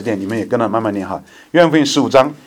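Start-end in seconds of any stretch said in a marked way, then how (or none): 1.5-2.3 slow, measured, solemn Bible reading; slow scripture reading. Acted. Pastor reads John fifteen aloud to the church, slow and solemn. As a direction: read each phrase deliberately so the flock can follow.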